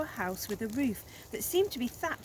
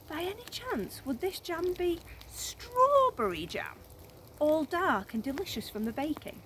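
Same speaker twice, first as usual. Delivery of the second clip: crocodile voice; 8 semitones higher than usual. A narrator's reading. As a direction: draw it out like a scheming crocodile. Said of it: "said the crocodile".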